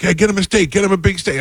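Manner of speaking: high-pitched mock food order; boisterous host. Sopranos guys order food for newly seated guest, boisterous hosting. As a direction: imitate the guys eagerly calling for food.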